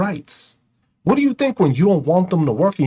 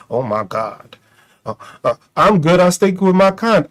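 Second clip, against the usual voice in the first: mocking closeted man. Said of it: "the fucking confusion of".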